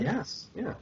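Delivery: soft, high laughing agreement. Real, not acted. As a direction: giggle through the yes. Laughing at the accent attempt.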